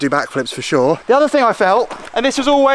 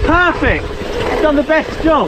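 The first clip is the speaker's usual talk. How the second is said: excited; 9 semitones higher, slower than usual. Real, not acted. Riding the new pump track.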